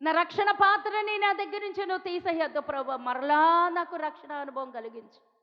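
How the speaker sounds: full-voiced imitated plea, slowing at the end; pleading prayer, no longer hushed; fuller pleading. David crying to God in the psalm, fuller plea. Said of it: "దావీదు కీర్తనలో ఏడుస్తాడు".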